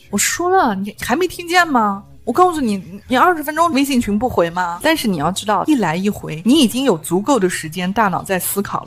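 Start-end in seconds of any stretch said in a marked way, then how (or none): 0.1-4.8 higher pitched, hammed-up stubborn reproach; stubborn scolding. Stubborn coworker demanding a reply, mock scolding. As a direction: act out a pushy coworker's rebuke. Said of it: "特别倔脾气的那种人".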